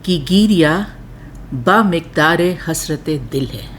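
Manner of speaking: measured, lingering recital of a ghazal couplet; poem recitation. Acted. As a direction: savour each phrase like a mushaira reading.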